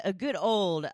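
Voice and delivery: a bad stab at British, all in fun; attempted British accent. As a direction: toss off a cheery British chap greeting. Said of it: "That sounds a little British, not Irish".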